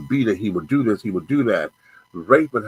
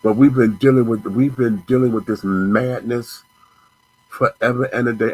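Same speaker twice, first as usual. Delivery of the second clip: loud; 3 semitones higher, 5 dB louder than usual. Real, not acted. Angry rant at a rapper.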